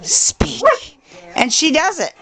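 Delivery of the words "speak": higher, crisp command to the dog; sharp command. Shown as a demonstration. Showing Terry how to give the dog the speak command. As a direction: bark it out like a dog trainer. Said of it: "all you gotta do is hold up the hot dog and just go".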